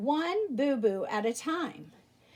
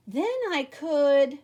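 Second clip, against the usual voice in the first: mock musing; 5 dB louder, slower than usual. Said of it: "Earl thought".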